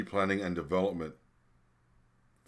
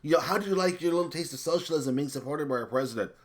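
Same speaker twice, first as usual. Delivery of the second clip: higher, sneering imitation of a politician; mock her smug tone; mildly mocking higher voice for Nancy; mocking quote; 7 semitones higher, 4 dB louder than usual. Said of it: "you said this going".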